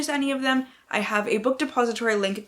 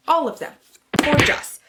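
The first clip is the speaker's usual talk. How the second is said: higher and louder, gushing; 7 semitones higher, 5 dB louder than usual. Real, not acted. Booktuber gushing over gorgeous covers, excited. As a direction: burst out in delight.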